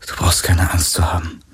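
soothing a frightened dying friend; gentle voice. Acted. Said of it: "sagte er mit sanfter Stimme".

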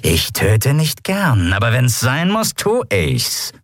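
slow rumbling pirate threat. Acted. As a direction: rumble it out slowly. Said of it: "brummte die Skria".

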